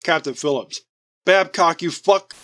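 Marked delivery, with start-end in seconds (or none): 1.2-2.3 angry yell. Acted. Ambushed, cursing a traitor.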